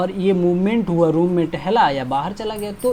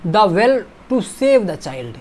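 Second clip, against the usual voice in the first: reading the sentence slowly, word by word; slow dictation; 3 dB louder, much slower than usual. Shown as a demonstration. Teacher reading a quiz sentence slowly to the class. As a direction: spell it out slowly for students. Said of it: "देखिए".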